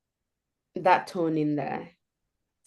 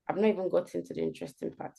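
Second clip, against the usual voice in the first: teasing hook; 2 semitones lower, 7 dB quieter, faster than usual. Retold or imitated. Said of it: "You don't say".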